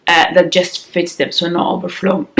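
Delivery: morning rasp in the voice; raspy voice. Real, not acted. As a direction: talk through a raspy morning voice. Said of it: "I always have a raspy voice in the morning".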